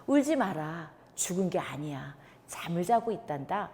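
softly reassuring, like soothing a grieving family; a gentle Jesus soothing the mourners; tender comfort. Acted. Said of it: "따뜻하게 말씀해 주시면서".

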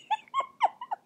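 high burst of laughter; laughing. Real, not acted. Reader losing it over a silly moment, high laugh. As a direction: crack up in a high giggle.

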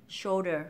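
"shoulder" joined up, L kept before D; correct shoulder. Shown as a demonstration. Teacher modelling whole word, "shoulder" with dark L. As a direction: say "shoulder" with the tongue up for L. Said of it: "sẽ kéo cái lưỡi của mình lên".

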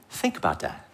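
soft, low-voiced repeat; subdued, voiced aside to the audience; hushed, low. Real, not acted. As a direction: say it low and quietly, letting it sink in. Preacher repeats point quietly.

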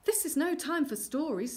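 high, loud, impatient; urgent dismissal. Acted. Queen has no time for stories, impatient. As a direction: brush him off urgently.

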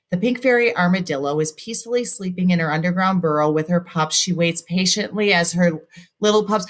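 rushed run-on reading with no stop at the period; running out of breath. Shown as a demonstration. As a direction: read straight on in one breath until the air runs out. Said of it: "I ran out of breath".

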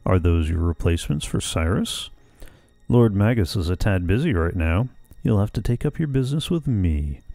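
a hint of a gloating villain. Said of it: "try to do that justice".

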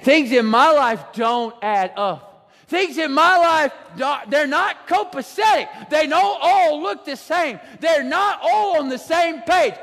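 like telling God it all makes no sense; frustrated cry to God. Retold or imitated.

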